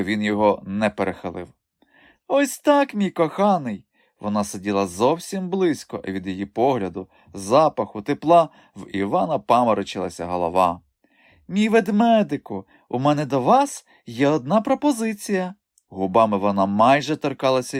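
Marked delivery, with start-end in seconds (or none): 2.3-3.8 high, sweet and seductive coaxing; coaxing endearment. Acted. Madame coaxing Ivan to drink. 11.5-15.5 high, honeyed seductress voice; seductive madame. Acted.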